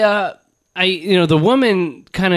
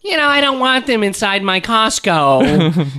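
mock bigot; 4 semitones higher, slower than usual.

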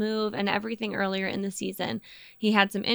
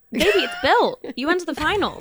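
higher-pitched playful disbelief; mock exasperation; 6 semitones higher than usual. Host answering a coach's quote, mock exasperation.

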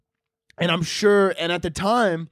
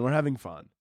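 softer, muted insistence; deflated reassurance; 3 semitones lower, 7 dB quieter than usual. Pretend. Comedian insisting it's all fun, deflated. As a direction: let the cheer drain away into a low aside. Mock cheer sinks on repeat.

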